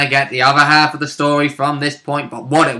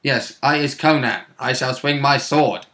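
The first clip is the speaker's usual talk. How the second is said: dim barbarian; slower than usual. Pretend. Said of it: "He's a big meat barbarian".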